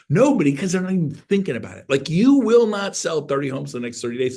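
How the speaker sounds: emphatic. Real, not acted. Emphatic rant.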